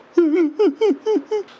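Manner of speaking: high, hammed-up whimpering sobs. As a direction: imitate someone weeping pitifully alone. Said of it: "그냥 혼자 찔찔 울어". (과장되게 훌쩍이는 울음 흉내)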